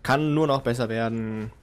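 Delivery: mock pundit interview. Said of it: "Halbzeitanalyse mit Vortex".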